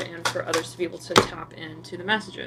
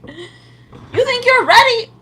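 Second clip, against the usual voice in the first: Isaac's voice; 10 dB louder, much slower than usual. Retold or imitated. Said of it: "Isaac's like".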